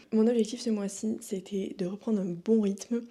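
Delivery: speaking with a numb lip. Real, not acted. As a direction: talk around an anesthetized lip. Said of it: "une partie de la lèvre qui est anesthésiée".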